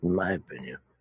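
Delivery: muttered under the breath. Speaking in character about what the ship is worth, adding an aside: muttered under his breath. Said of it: "just sort of under his breath".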